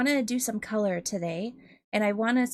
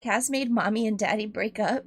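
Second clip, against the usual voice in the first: lightly voiced newscaster; news anchor voice. Shown as a demonstration. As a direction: read it like breaking news. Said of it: "News anchor voice".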